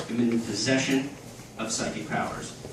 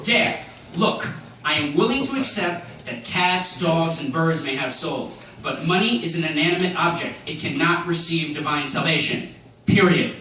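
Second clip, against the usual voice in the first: mock solemn lecture; 3 semitones higher than usual. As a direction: lay it out like a sermon, end firm.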